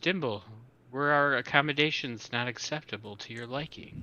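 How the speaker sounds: really snarky, snide, mocking tone. A game master voices Grin speaking to Dimble, in a really snarky voice. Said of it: "In a like a really snarky voice".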